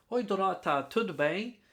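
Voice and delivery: lightly voiced gringo making careful, polite conversation; softly spoken imitation of a foreigner trying his Portuguese; gringo courting Dorota. Gringo inviting Dorota to chat, in careful learner's Portuguese. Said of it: "imagina o gringo chegando pra Dorota".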